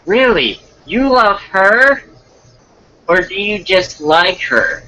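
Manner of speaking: put-on high-pitched curious girl; put-on girl on a date; girl's voice. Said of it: "then I'll do the girl's voice".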